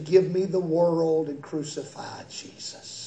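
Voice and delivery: low, soft and grave; hushed quote. Acted. Preacher voicing the congregation's choice against Jesus, hushed. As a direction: let the damning words fall quietly.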